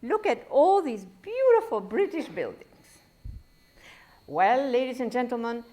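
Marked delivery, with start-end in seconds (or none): 0.0-2.7 imitating tourists. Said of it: "I heard these people ... say".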